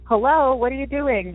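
lightly playing the girl in the movies calling out; horror movie girl. Retelling her ghost story, hamming up a scared movie girl. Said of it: "kinda like out of the movies".

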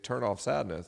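"Turn off sadness?" repeated back in mild disbelief; incredulous echo. Retold or imitated. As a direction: echo "Turn off sadness?" as if you can't believe it. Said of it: "She's like".

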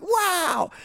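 very high, drawn-out wonder; mock awe. Skydiver in the air on video, mock awe. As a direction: swoop way up in exaggerated amazement.

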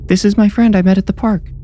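put-on high little-girl voice; a child making an introduction, pitched well up; young girl. A narrator's reading. Neve introducing Bee to her parents, high girlish voice.

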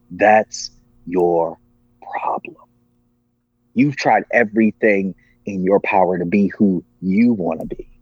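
measured, deliberate voice of authority, retold; strong voice. Strong voice answers the despairing man, retold with measured firmness. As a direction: deliver it firmly, with pauses between phrases. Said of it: "but it was a strong voice".

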